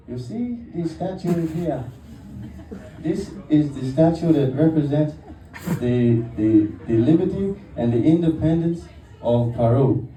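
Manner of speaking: lightly put-on Spanish-accented tour guide; a touch of a Peruvian guide's accent; mock Peruvian accent. Guide showing the statue, in a light mock Peruvian accent. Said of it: "I'm working on the accent".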